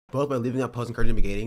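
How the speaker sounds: loud fast mocking read; mocking quote. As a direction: rattle it off in mockery. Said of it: "he's like".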